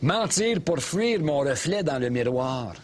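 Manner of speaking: slow, overwrought recitation; mock dramatic lyric. Mocking a singer's lyrics, slow and overwrought. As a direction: read the lyric slowly with fake drama. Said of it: "Elle, c'est quasiment épeurant".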